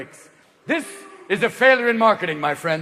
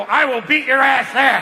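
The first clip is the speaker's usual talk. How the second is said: slow, loud vow; determined swimmer; 5 semitones higher, 3 dB louder than usual. Acted. One-legged swimmer vowing to beat him to the chocolate. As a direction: growl out the threat slowly. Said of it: "a one-legged swimmer go".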